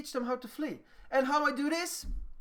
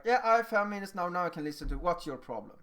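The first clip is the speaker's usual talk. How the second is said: rushed start, dropping lower, impatient; hurried listener; 3 semitones lower, faster than usual. Acted. Adult with only five minutes for a child, hurried impatience. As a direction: hurry the child along with little patience. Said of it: "can't solve something in, like, five minutes".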